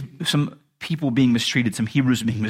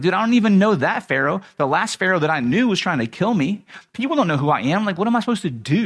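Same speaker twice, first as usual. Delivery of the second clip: higher-pitched mock protest; flustered protest; 6 semitones higher than usual. Moses objecting to being sent to Pharaoh, flustered protest. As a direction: play an overwhelmed, pleading objector.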